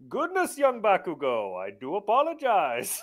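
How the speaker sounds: high, swooping apologetic voice; posh-sounding apology with big swoops in pitch; over-polite hero. Acted. Improviser playing All Might to young Bakugo, over-polite.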